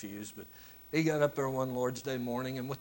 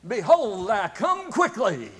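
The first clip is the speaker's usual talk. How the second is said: raised, slow preacher's call; louder preacher's call; 8 semitones higher, 13 dB louder, slower than usual. Retold or imitated. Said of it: "this time he really gets in there".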